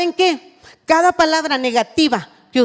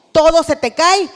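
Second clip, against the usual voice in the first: mock scolding; 2 semitones higher, 6 dB louder than usual. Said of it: "Si tú le dices a tu hijo".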